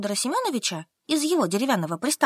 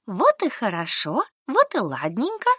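relieved delight. Acted. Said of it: "запрыгала на месте Солька, довольная".

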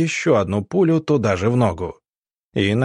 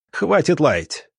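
higher-pitched, curt narrated order; mild bark; 5 semitones higher, slower than usual. A narrator's reading. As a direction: silence the prisoner with restrained anger. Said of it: "рявкнул Ланс".

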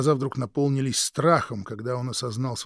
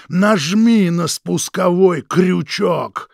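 much higher, much louder, slow hoarse scream; hoarse yell; 8 semitones higher, 13 dB louder, slower than usual. Acted. Krik screaming at his brother to shoot him. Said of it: "хрипло завопил Крик".

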